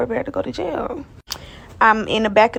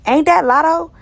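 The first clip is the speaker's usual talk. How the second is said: retold surprised officer; 7 semitones higher, 3 dB louder than usual. Imitates officer recognizing her on arrival.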